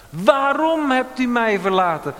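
loud, high anguished question; crying out. Retold or imitated. Preacher voicing Jesus calling from the cross, loud cry. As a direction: call out the why in anguish. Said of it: "hij roept het aan het kruis".

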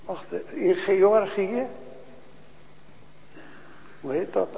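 normal talking voice

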